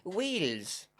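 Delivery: Wales drawn out as "weels", Welsh lilt; Welsh accent. Pretend. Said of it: "That's my attempt at a Welsh accent".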